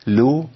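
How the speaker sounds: لو with rounded u; lam with damma demo. Shown as a demonstration. Sheikh modelling لو for students. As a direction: say لو with round lips. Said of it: "اللام المضمومة".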